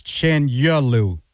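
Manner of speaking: "Chenyelu" with a clear "yeh" in the middle; recommended pronunciation. Shown as a demonstration. Host checks a player's surname with the reporter, saying "Chenyelu" as CHEN-yeh-loo. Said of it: "what seems to be right way to say it".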